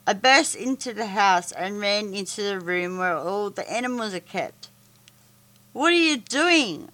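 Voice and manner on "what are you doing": put-on boy yells up high at Monty; high, sharp demand; raised yell. A narrator's reading. Boy confronting Monty over the caged animals, yelling. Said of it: "I yelled".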